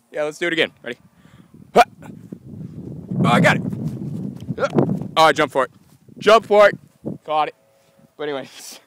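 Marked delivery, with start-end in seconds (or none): 1.7-7.5 loud excited praise; much louder happy yells; real cheering. Real, not acted. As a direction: celebrate the jump. Cheering pet's jumping catch.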